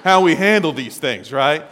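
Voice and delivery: loud, firm disapproval; stern correction. Retold or imitated. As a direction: set him straight. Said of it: "And I'm like".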